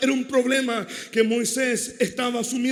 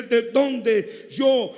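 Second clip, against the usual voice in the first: complaining Moses; 3 dB louder than usual. Retold or imitated. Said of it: "pero él dice".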